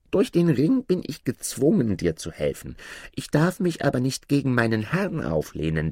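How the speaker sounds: high-pitched dwarf, formally submissive; servile dwarf spirit. Acted. Dwarf explains the ring's power to Aladin, high servile voice. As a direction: declare service in a high little voice.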